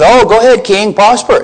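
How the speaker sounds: high mock-cheerful sarcasm; sarcastic. Micaiah mocking King Ahab with a sarcastic go-ahead. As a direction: toss it off as a sarcastic blessing. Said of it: "is saying it in sarcasm".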